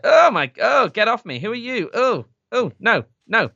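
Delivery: hammed-up frightened woman; mock alarmed woman. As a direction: squeak it like she's fending off a creep. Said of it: "it is just like".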